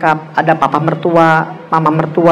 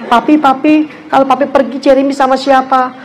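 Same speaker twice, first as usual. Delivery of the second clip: lightly voiced small child, higher and begging; little child pleading; 6 semitones higher than usual. Youngest son begging his father not to leave, high pleading child voice. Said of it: "Lalu yang paling kecil".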